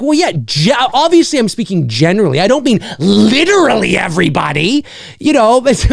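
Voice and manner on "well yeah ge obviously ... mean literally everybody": higher, exasperated over-explaining; exasperated reply. Retold or imitated. Answering nitpicking commenters, mildly exasperated. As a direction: spell it out like it's obvious. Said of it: "and I'm like".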